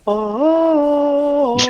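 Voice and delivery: long, very high held note; high, sustained choral "oh"; mock angelic choir. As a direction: sing out a heavenly wordless note. Acts out reverent handover of mithril.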